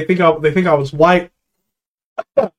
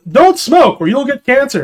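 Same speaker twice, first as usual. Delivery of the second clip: higher, slow ad warning; mock ad voice; 9 semitones higher than usual. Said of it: "those cancer commercials".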